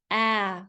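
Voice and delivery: "ah" as the short A in cat, said alone; short A sound. Shown as a demonstration. Teacher sounding out bamboo for spellers, short A "ah". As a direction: isolate "ah" as a short A vowel. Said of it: "Short A".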